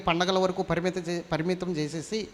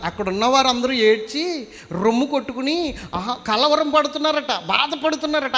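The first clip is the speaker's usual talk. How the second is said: much higher, louder fiery sermon; full force preaching; 7 semitones higher, 4 dB louder than usual. Acted. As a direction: drive the point home to the crowd.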